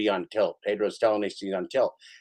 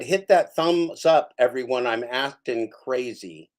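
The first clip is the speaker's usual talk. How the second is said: imitating streamer; slower than usual. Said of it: "He just said".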